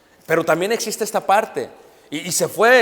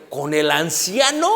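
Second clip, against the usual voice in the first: incredulous; slower than usual. Retold or imitated. Shocked at the news.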